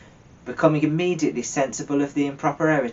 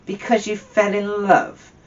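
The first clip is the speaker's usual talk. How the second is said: scornful growl, higher and louder; mock-incredulous growl, louder; 9 semitones higher, 5 dB louder than usual. A narrator's reading. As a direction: sneer it back in disbelief. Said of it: "growled Scrooge".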